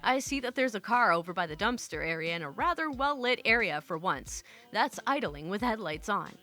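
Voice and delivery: measured storyteller read of a first-person tale; story narration. A narrator's reading. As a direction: narrate it with deliberate, even phrasing. Reads a posted story aloud.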